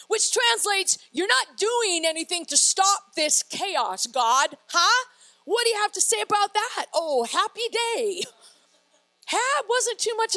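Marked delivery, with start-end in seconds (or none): 1.1-8.2 challenging complaint. Acted. Acts prophet challenging God, then sarcasm.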